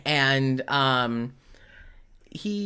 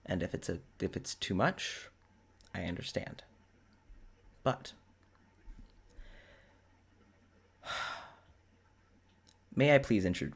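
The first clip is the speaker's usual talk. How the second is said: low, hesitant, earnest request; 8 semitones lower, 7 dB quieter than usual. Acted. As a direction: ask softly and carefully, in a lowered voice.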